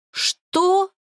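scoffing what. Acted. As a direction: scoff at his demand. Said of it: "усмехнулась". (насмешливо, с усмешкой)

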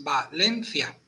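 "Valencia" en tres sílabas: Va-len-cia; separado en sílabas. Shown as a demonstration. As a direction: silabea "Valencia", dejando CIA en una sílaba. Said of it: "son tres sílabas". ("Valencia" pausado, sílaba por sílaba)

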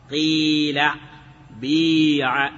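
قيل and بيع with a clean long i; pure-kasra reading of قيل and بيع. Shown as a demonstration. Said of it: "كسر الخالص".

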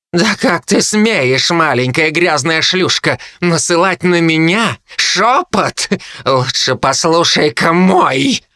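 slow, high, venomous harpy voice; scornful harpy. Acted. Harpy Kai scorns Jo's whisper spell, slow venomous harpy voice. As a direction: sneer down at the girl.

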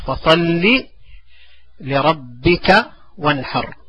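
slow drill. Shown as a demonstration. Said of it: "teacher drills verse slowly".

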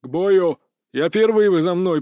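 громкая команда бойцам; отдай приказ в голос; командный окрик. Acted. Десятник командует перед боем. (громко, по-командирски)

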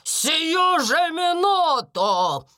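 медленно, с нажимом, громче; рявкнуть властно и протяжно; гневный окрик. A narrator's reading. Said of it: "гневно оборвала её мисс Минчин". (гневно обрывает сестру)

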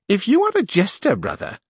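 put-on scornful old duenna. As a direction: send the fool packing.

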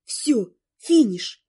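slow, tearful half-wail; wailing despair. Acted. Girl despairing over two weeks, slow tearful wail. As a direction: wail it slowly, close to tears. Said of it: "Я взвыла".

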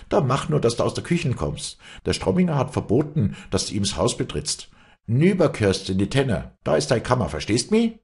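high, loud, insolent maid; freche Magd, herrisch. Acted. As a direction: order her out of your kitchen. (freche Magd, laut und herrisch)

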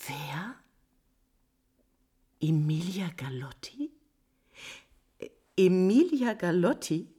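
whispered disbelief; shocked whisper; stunned whisper. Acted. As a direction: let the name escape in a whisper. Countess hears the rival's name.

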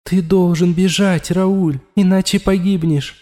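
a bitter voice inside his skull; inner voice warning. A narrator's reading. The voice in Raul's head warns him of death, bitter.

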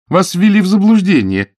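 Billy insists, raising her voice; insistent protest. A narrator's reading. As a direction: argue back hard. Billy arguing.

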